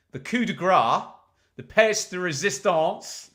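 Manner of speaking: hammed-up French accent, slow and drawn out; mock French accent for a grand finale; terrible French accent. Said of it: "in my terrible French accent".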